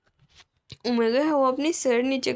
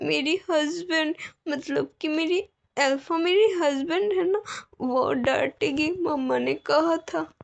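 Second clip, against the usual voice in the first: naive little bride, higher voice; innocent bride; 5 semitones higher than usual. Acted. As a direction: say it like a timid child quoting mom. Omega explains innocently. (मासूम, ऊँची आवाज़ में डरी हुई दुल्हन)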